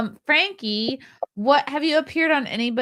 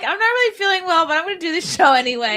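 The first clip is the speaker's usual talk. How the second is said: imitating Hannah; 7 semitones higher, 4 dB louder, faster than usual. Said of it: "Poor Hannah's like".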